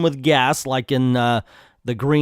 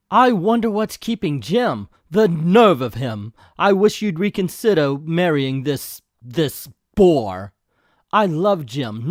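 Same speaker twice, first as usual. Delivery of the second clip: lightly voiced impatient woman, pitched up in places; fretting Clarice; 3 semitones higher, 3 dB louder than usual. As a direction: fret and fume like a kept-waiting fiancée.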